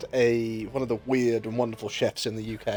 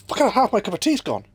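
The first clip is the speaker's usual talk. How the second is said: mock dismay; 9 semitones higher, 4 dB louder than usual. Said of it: "you go".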